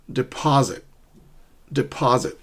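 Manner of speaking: "deposit" stressed on the middle syllable "POS"; stress on second syllable. Shown as a demonstration. Teacher modelling the word for learners, "deposit" with middle-syllable stress. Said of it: "stress the second syllable".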